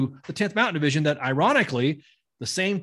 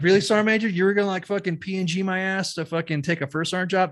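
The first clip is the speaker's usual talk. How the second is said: indignant; 6 semitones higher than usual. Retold or imitated. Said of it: "So I, I was like".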